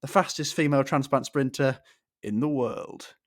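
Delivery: lightly done motoring-show presenter impression; a hint of a TV presenter's grand announcement; Jeremy Clarkson. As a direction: announce it with a dramatic pause before the last words. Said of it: "get my Jeremy Clarkson voice on".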